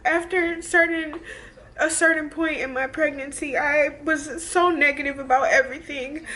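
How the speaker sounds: high, strained voice on the edge of tears; tearful, voice breaking. Real, not acted. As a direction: fight back real tears while telling it. Breaks down retelling scary birth.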